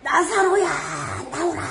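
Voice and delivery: calling out loud and high to the tomb; a loud summons into the grave. Retold or imitated. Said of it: "엄청 큰 소리로".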